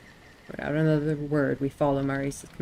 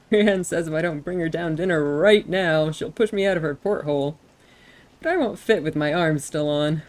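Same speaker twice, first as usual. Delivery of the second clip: excited; 6 dB louder than usual. Acted. Panicked messenger relays threat.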